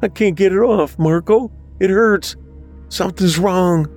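high, distressed whining; panicky whine. A narrator's reading. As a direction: plead with big brother in a high whine. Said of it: "Bobby said with a whine".

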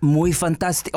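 mock French slipping into Spanish; accent slipping into Spanish. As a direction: put on a Spanish-tinged accent. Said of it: "I got my Spanish in there".

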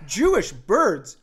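put-on baffled teen repeating it; incredulous. Daughter's incredulous reply.

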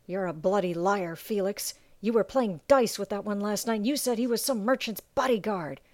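a second sailor, voiced apart from the narrator, mocking; scoffing sailor. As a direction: call his mate a liar with a sneer. Sailor accuses Felix.

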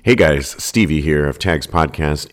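ordinary delivery

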